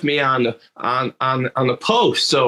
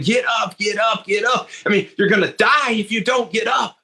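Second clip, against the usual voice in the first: raised mock yell, higher; calling teammates to get up; shouting encouragement at a fallen teammate; retold yelling; 5 semitones higher than usual. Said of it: "the players yelling".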